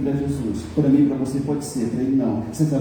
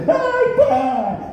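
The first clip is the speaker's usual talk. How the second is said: mock wailing; 11 semitones higher than usual. Pastor mimicking sons faking grief at a father's coffin, hammed-up high wail. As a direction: ham up a crocodile-tears cry. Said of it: "pulava em cima do caixão".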